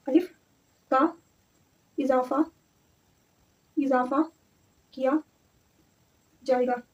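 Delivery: word by word with long gaps. Real, not acted. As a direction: dictate as if writing each word out. Dictating a note while writing.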